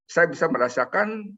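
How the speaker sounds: emotional. Real, not acted. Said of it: "Maaf, saya emosional ya".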